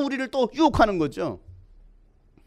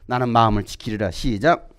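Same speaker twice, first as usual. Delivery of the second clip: tag; 13 semitones lower than usual. Real, not acted. Cueing congregation to repeat.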